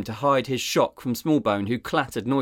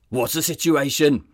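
barked; 5 semitones higher, 3 dB louder than usual. Acted. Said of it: "Sizemore barked".

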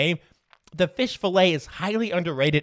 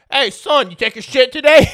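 loud, higher-pitched imitation of dad calling out; hammed-up fatherly yell; mock dad shout; 7 semitones higher, 10 dB louder than usual. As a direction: holler it like a dad at his son. Acting dad calling to sick son.

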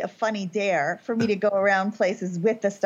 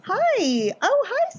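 high, bright hello; ventriloquist greeting; 13 semitones higher, much slower than usual. Pretend. Sasha opening her beach act, high greeting. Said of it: "I'll be like".

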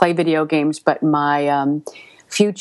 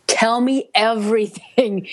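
eager; 5 semitones higher, slower than usual. Retold or imitated. Eager demand on meeting narrator.

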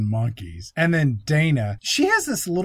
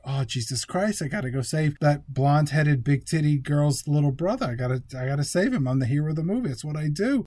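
Mark Wahlberg. Retold or imitated. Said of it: "Mark Wahlberg is like".

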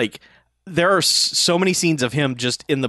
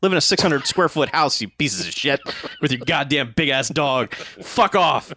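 worked up rant. Real, not acted. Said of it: "I got very worked up there".

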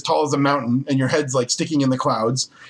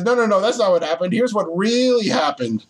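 lightly voiced orc, higher, slowing into the correction; objecting orc; 6 semitones higher than usual. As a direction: overrule the storyteller in mock protest, stretching "really". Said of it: "the orc, he says".

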